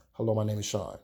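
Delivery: a mock bored, indifferent "Hello, my name is Sean."; boring greeting. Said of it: "It was just a boring ass".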